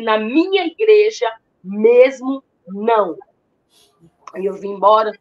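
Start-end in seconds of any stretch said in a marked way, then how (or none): 0.0-3.2 slow, loud mock yell at her; half-acted shout, each word dragged out; retold shout. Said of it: "Ele gritou comigo".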